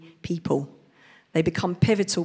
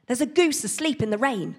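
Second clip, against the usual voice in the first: muddled message; 7 semitones higher than usual. Acted. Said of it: "he said".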